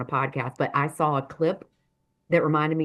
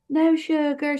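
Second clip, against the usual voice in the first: imitated soothing; 10 semitones higher, 4 dB louder, slower than usual. Retells woman soothing the hurt narrator.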